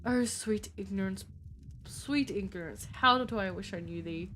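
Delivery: put-on weary theatrical Brit, accent only half there; butchered British accent. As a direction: sigh through it in an amateur British accent. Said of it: "I'm butchering the accent".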